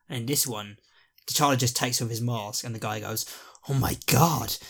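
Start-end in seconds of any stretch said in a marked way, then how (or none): 3.7-4.6 loud, drawn-out fanboy exclamation; starstruck gasp. Acted. Guy recognises his hero Star-Lord, starstruck shout. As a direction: exclaim it in awe, stretching the name out loudly.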